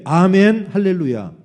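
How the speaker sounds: very loud, rousing 'amen, hallelujah'; full-voiced call-and-response shout. Shown as a demonstration. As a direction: belt out the amen for everyone to follow. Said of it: "좀 더 크게".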